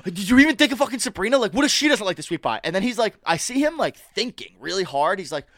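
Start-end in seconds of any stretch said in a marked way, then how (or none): 0.0-2.6 mild mock yell. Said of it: "Frankie's screaming at me".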